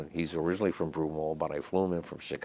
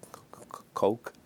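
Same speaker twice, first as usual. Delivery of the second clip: nervous stammer; 6 semitones higher than usual. Retold or imitated. Nervous kid ordering a drink.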